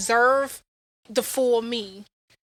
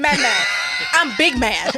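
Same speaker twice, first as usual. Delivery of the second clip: laughing shout; slower than usual. Real, not acted. Joking banter about being mad.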